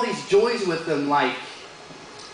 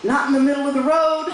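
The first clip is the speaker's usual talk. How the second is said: put-on high, insistent kid voice; young son; 8 semitones higher, 3 dB louder than usual. Son answering dad at the parade, high child voice. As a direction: protest it in a high little-boy pitch. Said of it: "And he goes".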